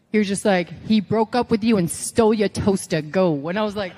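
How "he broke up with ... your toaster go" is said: lightly voiced trainer setting a scene; Dusty Rhodes. Trainer giving a promo prompt, lightly imitated command. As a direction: imitate a coach firing off a prompt, dropping on the last word. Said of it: "this is a Dusty impression".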